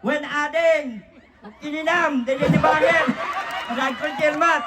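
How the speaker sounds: mock Ilocano. Host calls Ilocano, answered in a mock Ilocano accent. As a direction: joke around in a fake Ilocano accent.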